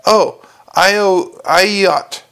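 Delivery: consonants dropped, gaping mouth; open-mouthed gargoyle. Acted. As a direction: speak without closing lips.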